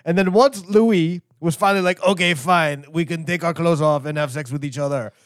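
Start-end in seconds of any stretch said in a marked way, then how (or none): 2.0-5.1 put-on light French accent, lightly camp; a hint of a camp French lover giving in; gay Frenchman. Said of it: "I do a good gay Frenchman".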